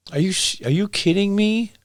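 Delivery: high, hushed incredulous question; can't believe what he just heard; stunned disbelief. Real, not acted. Incredulous reaction to quoted claim.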